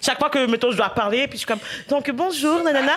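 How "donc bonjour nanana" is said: voix de présentation forcée. Retold or imitated. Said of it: "Christelle, parle normalement".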